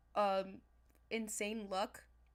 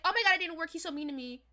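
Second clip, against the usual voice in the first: much higher and louder, panicky whine; upset whining; 7 semitones higher, 10 dB louder, faster than usual. Retold or imitated. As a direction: wail like the plan just failed. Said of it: "Instead of being like".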